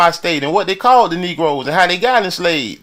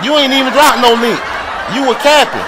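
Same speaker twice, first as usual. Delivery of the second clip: laughing while jabbing, louder and higher; laughing mockery; 6 semitones higher, 5 dB louder than usual. Real, not acted. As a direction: scoff through laughter at his excuse. Mocking rival who dropped no link.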